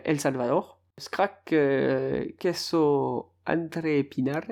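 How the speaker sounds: Spanish names in an attempted Spanish accent; lightly put-on Spanish accent, feeling out each name; best Spanish accent. Shown as a demonstration. Podcaster reads out Spanish championship teams in his best Spanish accent. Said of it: "mon plus bel accent aussi".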